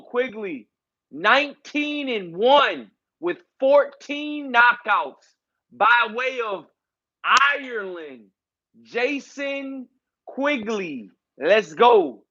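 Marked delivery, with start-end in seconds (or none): 0.0-11.1 a hint of a ring announcer, slow and drawn out; mock ring announcer. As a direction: stretch the fighter's record like an arena MC. Mock ring announcer introducing Quigley.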